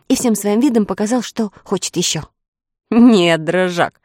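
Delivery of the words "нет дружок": gently teasing no, loud first word; affectionate refusal. A narrator's reading. Boy holding back hungry dog, affectionate refusal. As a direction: refuse fondly, as to a pet. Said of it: "ласково сказал Фред".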